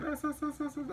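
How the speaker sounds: high, stammering imitation of a girl; mock stammering girl. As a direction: stutter it out like a flustered girlfriend. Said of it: "she always say some shit".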